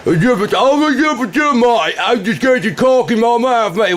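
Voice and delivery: high, slurred mock Irish mumble; mock Irish accent. Mimicking the troll's accent, mock Irish mumble. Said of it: "chewing on potatoes over there, Ireland".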